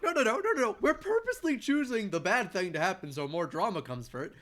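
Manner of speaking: high, loud gleeful protest; cheerfully insisting on chaos; excited. Retold or imitated. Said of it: "We're all like".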